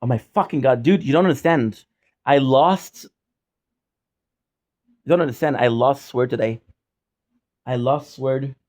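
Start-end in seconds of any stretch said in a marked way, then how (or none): 0.0-6.6 loud despairing plea; exasperated outburst. Real, not acted. Streamer pleading to his viewers, loud exasperated outburst. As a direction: make them feel the loss.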